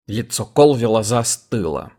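plain reading voice

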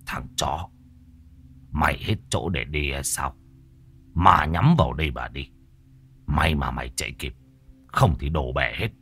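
soft, low, hissed through the teeth; a hidden figure spitting it out under its breath. A narrator's reading. Unseen figure curses Hỷ from the dark, low hiss. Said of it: "rít qua kẽ răng".

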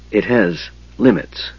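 wheezing. Acted.

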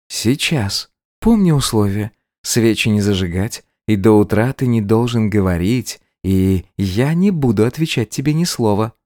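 the bride coolly reminding him of the terms; bright-eyed schemer laying down the rules; scheming bride. Acted.

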